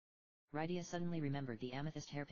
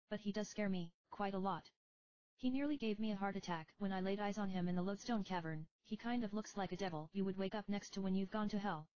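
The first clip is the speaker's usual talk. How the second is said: put-on higher, confiding young priestess; young girl voice; 7 semitones higher than usual. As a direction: tell a secret like a timid girl. Leonora whispers a secret.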